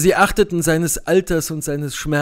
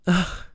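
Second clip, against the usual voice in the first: sigh; 4 semitones higher, 4 dB quieter than usual. Acted. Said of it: "seufzte Beatrice".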